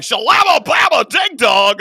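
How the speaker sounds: high loud nonsense blurt; imitating fast talker. Imitating the neighbor's garble, high and loud. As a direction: babble it like the mumbling neighbor. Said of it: "He was like".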